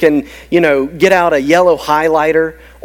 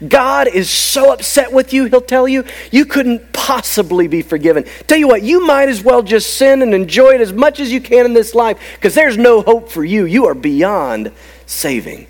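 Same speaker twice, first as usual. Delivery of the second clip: higher-pitched taunting condemnation; condemning Satan; 5 semitones higher than usual. Acted. Accuser telling the sinner lies in their mind, condemning. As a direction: press the guilt home insistently. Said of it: "he's gonna say things in your mind".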